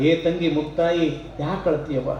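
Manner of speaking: consoling brother. A narrator's reading. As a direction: soothe the crying sister gently. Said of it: "ಸಮಾಧಾನ ಮಾಡ್ತಾನ ತಂಗಿಗೆ". (ಅಳುವ ತಂಗಿಯನ್ನು ಸಮಾಧಾನಿಸುವ ಅಣ್ಣನ ಮೃದು ಧ್ವನಿ)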